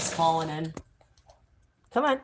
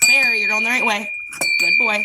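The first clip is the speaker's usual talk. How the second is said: louder encouraging call; raised praising voice; loud dog praise; 3 semitones higher, 7 dB louder than usual. Real, not acted.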